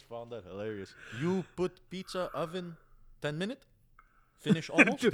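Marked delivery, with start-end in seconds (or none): 1.2-5.0 high, halting broken English; talking down. Retold or imitated. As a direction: mimic condescending questions, pitch climbing at the end. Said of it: "talk to him like that".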